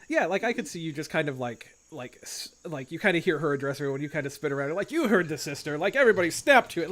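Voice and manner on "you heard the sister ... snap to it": lightly voiced sergeant, raised and quick; a hint of drill-sergeant command; mild militaristic order. Game master models soldier rallying the crowd, mild military order. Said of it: "really militaristic orders".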